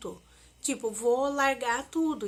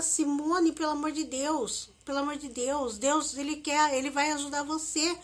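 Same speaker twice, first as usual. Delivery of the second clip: imitating a friend's urgent, raised pleading; friend pleading loudly; 4 semitones higher, 4 dB louder than usual. Friend on the phone calming Simone in panic, urgent loud pleading. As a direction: replay her friend begging her to stop, louder.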